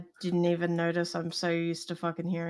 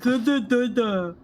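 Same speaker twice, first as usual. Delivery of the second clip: dazed voice; 6 semitones higher, 4 dB louder than usual. Retold or imitated. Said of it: "I'm like".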